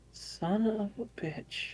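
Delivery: choked-up curse. Acted. George realizing, already tearing up.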